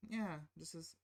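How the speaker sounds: sudden drop to soft and fast; half-muttered mock rudeness; mock rude wife. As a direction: imitate her snapping dismissal under her breath. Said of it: "she's ungrateful for the gift".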